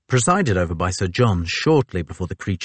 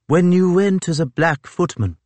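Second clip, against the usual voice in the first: Fitzjames voice; 10 semitones higher, 4 dB louder than usual. A narrator's reading.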